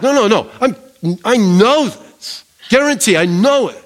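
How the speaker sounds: firm, certain "I know this"; an insistent declaration of certainty; emphatic. Retold or imitated. Paul's emphatic claim voiced by the preacher, insistent. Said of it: "like, emphatic".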